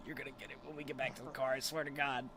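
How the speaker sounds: imitated threat, quick and held in; suppressed scream. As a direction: rush the warning, as if holding back a scream. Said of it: "holding herself from, like, screaming".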